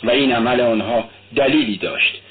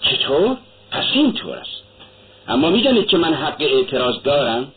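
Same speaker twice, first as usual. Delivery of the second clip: sharp, rising shock, pitch jumping up; a startled indignant cry; indignant outburst; 2 semitones higher than usual. Acted. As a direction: caught off guard and protesting. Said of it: "فریاد زد".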